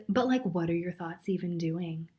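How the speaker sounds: nagging dragonfly. Retold or imitated. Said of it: "Dragonfly says".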